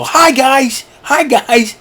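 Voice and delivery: shrill falsetto mock idiot; goofy high voice. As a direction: squeal it like a silly cartoon. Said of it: "I go".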